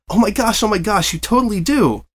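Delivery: high, bouncy chatterbox pony voice; breathless cheerful pony chatter; bubbly Pinkie Pie. A narrator's reading. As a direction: gush it out like an over-eager party pony.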